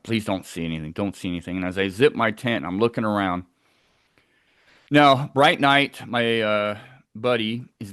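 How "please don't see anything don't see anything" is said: low-pitched, understated plea; retold anxious prayer. Camper praying as he unzips his tent, understated pleading. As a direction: repeat it like a private prayer under your breath. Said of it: "literally, like, praying to God".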